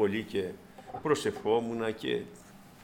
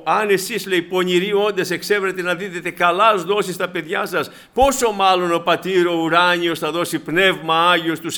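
loud, ringing quote of scripture; preaching at full force; 5 semitones higher, 7 dB louder than usual. Acted. Preacher proclaiming the Lord's words to the church, loud and ringing. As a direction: proclaim it to the congregation.

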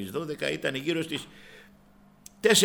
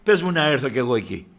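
bold plea; 3 semitones higher, 9 dB louder than usual. Retold or imitated. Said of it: "του λέει".

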